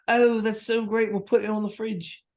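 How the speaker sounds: high, drawn-out doting praise; mock gushing. Bandmates praising the drummer's octopus song, mock gushing. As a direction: coo it slowly, like a patronising parent. Bandmates humour the drummer like parents.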